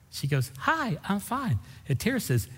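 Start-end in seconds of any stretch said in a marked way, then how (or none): 0.6-1.6 high, slow, softened friendly reply; chirpy lady. Retold or imitated. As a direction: imitate a sociable stranger in a high, drawn-out voice. Acting the lady's friendly reply.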